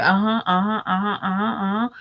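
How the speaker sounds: imitated hurry-along uh-huhs; rushing listener. Mother half-listening to her daughter, hurrying her along. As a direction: repeat it mechanically to push the talker on. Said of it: "it's just how you do it".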